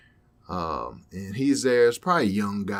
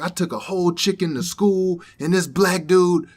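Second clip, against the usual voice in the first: higher, louder put-on voice for the guy; louder, higher mock counter-guy voice; imitating the guy; 7 semitones higher, 6 dB louder than usual. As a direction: tell it like the amused young guy. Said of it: "he's like".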